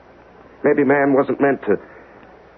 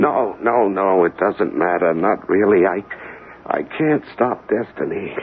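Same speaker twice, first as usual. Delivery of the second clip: low, slow, defeated; a broken man giving up on destiny; resigned sorrow; 4 semitones lower, slower than usual. Acted. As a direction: let the fight drain out of him. Resigned dying patient.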